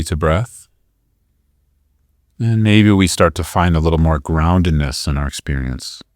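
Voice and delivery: calm, measured guidance with long pauses; guided meditation. Real, not acted. Teacher guiding listeners to breathe into the belly, guided meditation. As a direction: lead them through the breath, leaving room between phrases.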